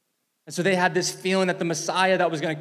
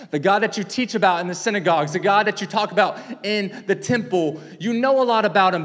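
rising emphasis; 4 semitones higher, 4 dB louder than usual. Real, not acted. Preacher building to a peak.

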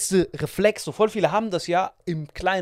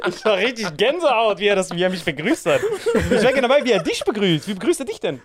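normal talking voice

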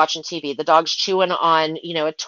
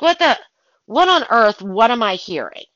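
sharp high startled "What the", then trailing into puzzlement; 4 semitones higher than usual. Retold or imitated. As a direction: jolt at a strange noise, then wonder aloud. Startled by noise in house.

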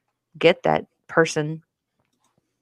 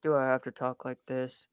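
mock deep voice; 5 semitones lower, 6 dB quieter than usual. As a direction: put on a low, soft dude voice. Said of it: "little bit more bass in your voice".

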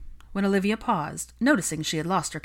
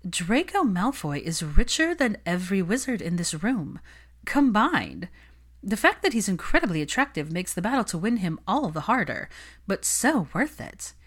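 higher, greedy society witch; higher, lightly voiced Olivia swooning over the money; coveting socialite; 3 semitones higher than usual. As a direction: savor the prize.

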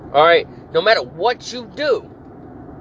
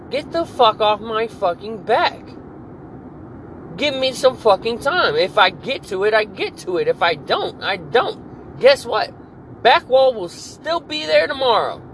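raised, heated telling-off, higher in pitch; retold angry comeback; 3 semitones higher than usual. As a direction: snap back at the supervisor in a rising temper. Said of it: "And I'm like".

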